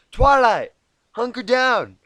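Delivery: high, loud urgent shout; horrible Applejack impression. Applejack shouts to Twilight to take cover. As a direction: yell for cover, badly voiced. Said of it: "that was a horrible impression".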